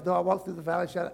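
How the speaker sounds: hurried, run-together reading; rushed wrong reading. Shown as a demonstration. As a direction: rattle it off carelessly. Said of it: "I, no, no".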